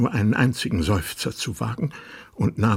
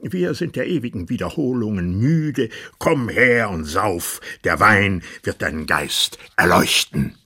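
lordly tyrant king; 2 semitones higher, 5 dB louder than usual. Acted. King bullies the dwarf.

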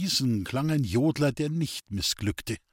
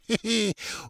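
bleating cackle; 9 semitones higher than usual. A narrator's reading. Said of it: "Ein meckerndes Gelächter".

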